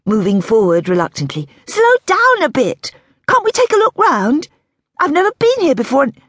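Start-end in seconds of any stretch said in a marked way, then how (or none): 1.7-6.2 put-on high young woman's voice; Daisy's voice. A narrator's reading. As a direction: lift it into Daisy's light curious voice.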